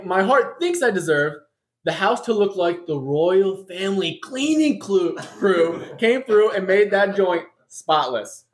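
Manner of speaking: barely holding back laughter at his own joke; telling his fantasy through bursts of laughter; laughing through it. Real, not acted. Comic fantasy of homecoming, laughing.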